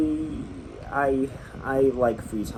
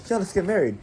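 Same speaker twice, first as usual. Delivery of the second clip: badly faked British accent, high; high, mock British girl voice; 8 semitones higher, 4 dB louder than usual. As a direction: attempt a British girl's accent. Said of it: "they were British, she was like".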